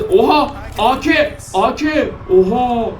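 high thrilled exclamations; can't believe the find; excited yelp. Real, not acted. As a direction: gamer thrilled by new gun. Finds a rifle.

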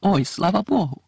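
slow, relieved cry from a distance. A narrator's reading. Mrs Weasley calls from the yard, a slow relieved cry. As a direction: call out in relief, drawing it out. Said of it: "почули вдалині крик".

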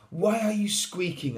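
high, loud questioning voice; little mouse. A narrator's reading. Mouse questioning Little Lion, high mouse voice. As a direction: pipe up as a puzzled mouse. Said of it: "asked Mouse".

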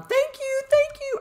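very high, elated squeal; excited thanks. Real, not acted. Player thanks after beating the dragon, excited squeal. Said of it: "I am so excited".

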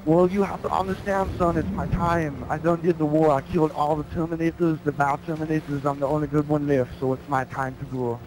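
lightly voiced Terminator saying goodbye; mock-solemn dying robot father; Terminator farewell. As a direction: Terminator bids John Connor farewell, understated. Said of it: "Arnold voice".

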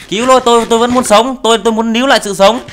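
comic desperate plea, voice up; mock pleading for life. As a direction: beg dramatically to keep living. Character begs to live.

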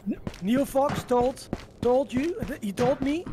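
very excited. Real, not acted. Viewer relaying Neil Fox's message to the streamer, very excited. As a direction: excitedly pass on a message, stumbling a little. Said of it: "You sounded very excited to tell me that".

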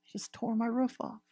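high, loud, delighted disbelief, slowing on crazy; thrilled amazement. Acted. Jesus marvels at the man who tore his roof off, high and delighted. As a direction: gush like someone blown away by sheer nerve. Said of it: "Just like".

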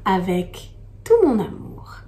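whispered tender last line; hushed loving close. Acted. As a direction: breathe the ending softly. Poem's tender closing line.

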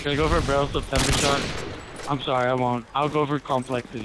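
slurred tipsy gamer. Real, not acted. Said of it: "You're drunk and I wanna see it".

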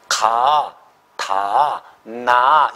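"가", "다", "나"를 하나씩 길게 끊어 발음. Shown as a demonstration. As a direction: demonstrate "가", "다", "나" as separate, drawn-out syllables. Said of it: "이렇게 발음하면". (자음이 닿는 소리를 보여 주듯 "가", "다", "나"를 또박또박 길게)

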